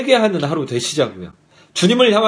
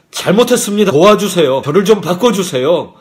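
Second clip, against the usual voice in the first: louder, urgent begging; acted pleading; 4 dB louder than usual. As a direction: plead for forgiveness as if on your knees. Acts out kneeling plea for forgiveness.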